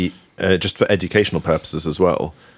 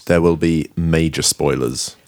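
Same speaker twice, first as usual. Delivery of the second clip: ominous warning; 4 semitones lower, slower than usual. Acted. Spooky spoiler warning.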